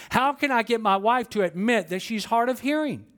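a frustrated husband blurts it out; exclaiming husband. Acted. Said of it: "he exclaimed".

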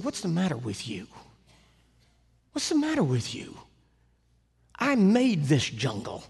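a hint of a stern God scolding; God correcting the missionary, lightly voiced. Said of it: "God spoke to me".

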